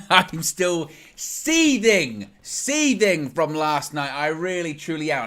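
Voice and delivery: loud, slow and seething; seething anger. Real, not acted. Fan opening his vlog still seething, loud and slow. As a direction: let the anger simmer through every word. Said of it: "I'm still very, very angry".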